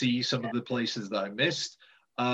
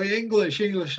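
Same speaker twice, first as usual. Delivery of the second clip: excited pointing out; 7 semitones higher, 4 dB louder than usual. Retold or imitated. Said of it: "they'd wave somebody over and go".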